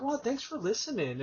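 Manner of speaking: small, grateful reply; retold gratitude. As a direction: imitate a tearful person's quiet thanks. Retelling tearful clerk's grateful reply.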